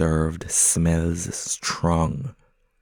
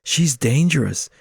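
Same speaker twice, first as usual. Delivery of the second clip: pigeon voice; 7 semitones higher, 5 dB louder than usual. Acted. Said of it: "says the other".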